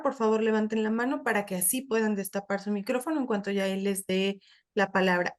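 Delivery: usual speaking voice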